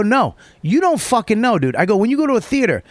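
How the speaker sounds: retold angry rant. Comic to fan after the show, heated. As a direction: lecture him hotly on theater manners.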